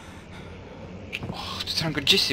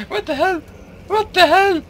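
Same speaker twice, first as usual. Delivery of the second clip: laughing disbelief; 6 dB louder than usual. Real, not acted.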